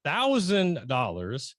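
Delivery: very slow, spaced-out figure; slow for emphasis. Real, not acted. Host reveals her writing income so all hear it, slowly. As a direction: say the number slowly, word by word. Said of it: "I'm gonna say this slowly".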